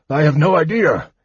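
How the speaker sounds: a touch of breathless astonishment; gasped. A narrator's reading. Old mage answering kender mid-flight, lightly gasped. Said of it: "he gasped".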